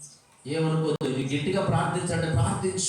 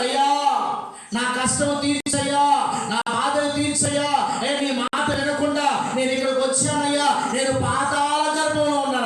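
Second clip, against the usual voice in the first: a preacher voicing Jonah's desperate prayer in a raised cry; 5 semitones higher than usual. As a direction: plead with God from the depths, half-shouting. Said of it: "మోకరించి అరుస్తున్నాడు".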